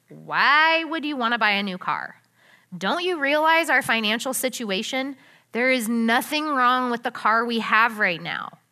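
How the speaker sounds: mildly sharp, dismissive questioning; a touch of scolding, brushing the idea off. Shown as a demonstration. Wife dismissing husband's new car idea, mildly sharp. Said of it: "said in that kind of voice".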